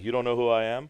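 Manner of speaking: playful diva; mock arrogance. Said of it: "don't wanna be like".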